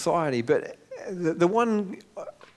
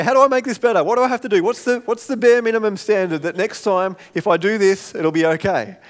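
loud, raised-pitch appeal; urgent pleading; 5 semitones higher, 6 dB louder than usual. Acted. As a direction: press the questions out insistently. Acting out anxious plea to fix things.

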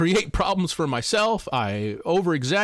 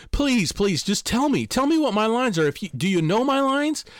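a touch of frantic begging, pitched higher; mock panicked pleading; 3 semitones higher than usual. Dreamer begging the actress for his lines, mildly frantic. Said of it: "I'm completely freaked out. I'm like".

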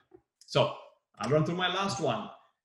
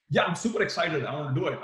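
super excited. Shown as a demonstration. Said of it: "And I could soon say".

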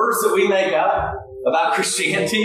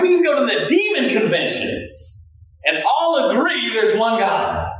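amused James; 3 semitones higher than usual. Retold or imitated. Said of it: "He's like".

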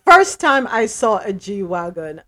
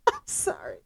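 real giggle through sorry; breathless laughing sorry; laughing apology; 9 dB quieter than usual. Real, not acted. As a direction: apologize while still cracking up.

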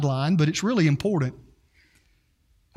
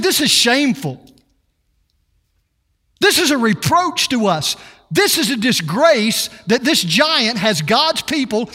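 indignant, raised voice of a fed-up shepherd; defiant outrage; 4 semitones higher than usual. Retold or imitated. Preacher voicing David's outrage at Goliath, indignant. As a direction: rile up at the shame of it. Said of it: "David had an attitude".

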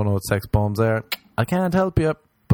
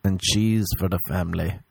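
hammed-up bedroom coaxing, slightly raised; mock dirty talk; 4 semitones higher than usual. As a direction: urge on a lover, jokingly. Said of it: "That's my dirty talk".

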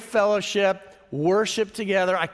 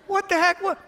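mock indignation; 11 semitones higher, 3 dB louder than usual. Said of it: "mock outrage at breakup".

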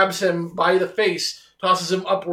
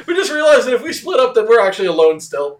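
mock scared; 5 semitones higher, 6 dB louder than usual. Acting two frightened characters barging in.

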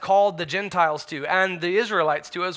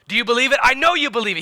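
bold challenge; 4 semitones higher, 5 dB louder, much faster than usual. Acted. Acts Paul pressing Agrippa publicly.

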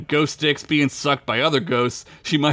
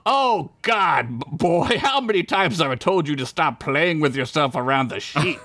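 scolding elf; 3 semitones higher than usual. Acted. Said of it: "said the elf".

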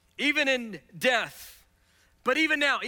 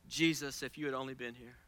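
grieving sister; 10 semitones lower, 10 dB quieter, faster than usual. Acted. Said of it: "she says".

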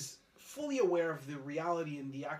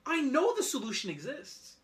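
excited laughing; 9 semitones higher, 6 dB louder than usual. Real, not acted. Laughing, excited about the point.

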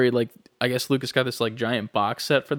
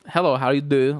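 put-on vague, hard-to-place foreign accent; light Flula-style foreign accent; 2 semitones higher than usual. Imitating a weird-talking YouTuber, foreign accent. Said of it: "very foreign, like, just".

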